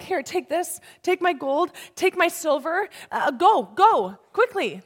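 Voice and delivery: high, hurried pleading; acted anxious urging; afraid Egyptians. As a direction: press gifts on them and shoo them off. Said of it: "They're afraid".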